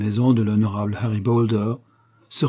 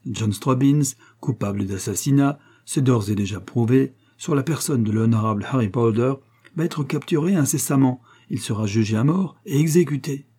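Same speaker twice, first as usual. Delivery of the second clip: fierce glee; 2 semitones higher than usual. Acted. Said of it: "avec une joie féroce".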